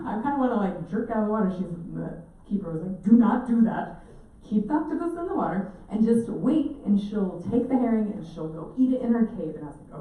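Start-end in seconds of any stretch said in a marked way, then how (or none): 3.0-9.6 louder stern instruction; firm warning. Retold or imitated. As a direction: tell her firmly not to move. Keeper firmly instructing her.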